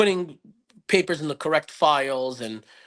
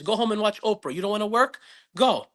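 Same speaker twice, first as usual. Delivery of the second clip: imitating stern dad; 5 semitones higher than usual. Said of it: "The exact words".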